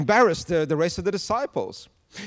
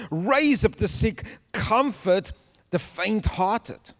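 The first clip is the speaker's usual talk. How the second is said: slow, lifted prayer recitation; prayerful reading. Acted. Preacher reading an ancient prayer aloud, slow and lifted. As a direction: intone the prayer line by line.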